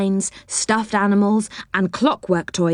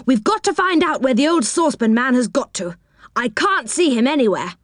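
high eager little man voice; Moonface; 5 semitones higher than usual. Acted. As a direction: chatter in a high, fussy voice. Moonface speaks.

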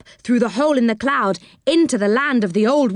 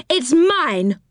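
higher indignant claim; Moonface shouting; 8 semitones higher than usual. A narrator's reading. Moonface to the old woman, higher indignant shout. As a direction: stake your claim, lightly shouted. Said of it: "shouted Moonface".

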